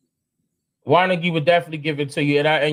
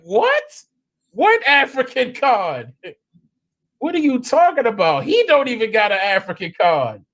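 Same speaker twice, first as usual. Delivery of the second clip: retold disbelief; 4 semitones higher than usual. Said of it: "I was like".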